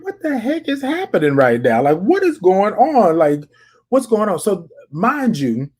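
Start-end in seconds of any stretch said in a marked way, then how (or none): 0.0-4.4 high, baffled what-the-heck; incredulous disbelief. Retold or imitated. Shopper reacting in disbelief to a line-cutter: incredulous and high. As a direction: throw it out in disbelief, pitched up. Retelling shocked reaction in store.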